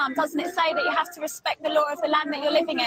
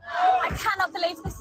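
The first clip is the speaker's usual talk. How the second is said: stunned disbelief, raised voice; shocked; 3 semitones higher than usual. Real, not acted. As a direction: gasp it out in shock. Reporter amid huge chanting demo.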